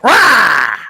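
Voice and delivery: big slow loud roar; old soldier roaring like a tiger, loud and slow. Retold or imitated. Old man imitates tiger roar.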